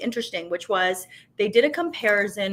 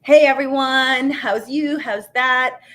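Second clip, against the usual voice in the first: mock presenter; 3 semitones higher, 5 dB louder than usual. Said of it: "I was talking like this".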